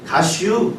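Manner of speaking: clipped Chungcheong dialect word with a laugh; a hint of Chungcheong dialect, amused. Shown as a demonstration. 충청도 사투리로 짧게 웃으며. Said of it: "충청도에서는".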